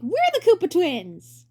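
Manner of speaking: slow, high TV host voice; hammy stage actor. Acted. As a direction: announce it grandly, slowly. Slow presenter intro.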